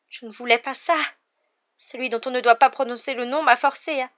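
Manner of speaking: high, whining self-justification; whimpering. A narrator's reading. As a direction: make tearful excuses, begging to be understood. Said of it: "pleurnicha-t-il". (justification pleurnicharde)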